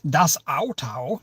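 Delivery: slow, badly faked German accent; poor German accent. Shown as a demonstration. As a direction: put on a clumsy German accent, drawn out. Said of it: "my really poor German accent".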